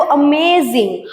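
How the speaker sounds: অ্যামেজিং with the middle মেজ stressed; অ্যামেজিং as unstressed-STRESSED-unstressed; stress on middle syllable. Shown as a demonstration. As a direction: lean on মেজ in অ্যামেজিং, first and last syllables light. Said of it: "মেজটা হচ্ছে stress".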